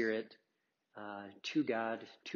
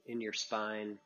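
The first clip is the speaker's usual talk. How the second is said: unhurried meditation guide with long pauses; guided meditation. Acted. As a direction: ease them gently into the breath, leaving space between phrases. Leads a breathing meditation.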